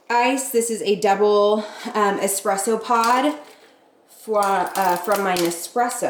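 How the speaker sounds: stumbling over the words, halting; halting, choked words. Real, not acted. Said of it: "I don't know why I'm choking those words out".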